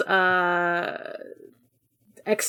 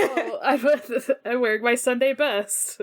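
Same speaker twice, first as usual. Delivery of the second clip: laughing quote; 3 semitones higher than usual. Retold or imitated. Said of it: "I was like".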